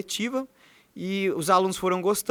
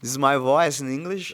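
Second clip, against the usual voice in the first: English voice; 4 semitones lower, 4 dB louder than usual. Shown as a demonstration. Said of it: "Como que é a sua voz em inglês?".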